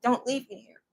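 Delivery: quietly beg, understated; retold begging. Man on his knees begging the policeman, soft plea. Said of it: "I fell on my knees and I begged him".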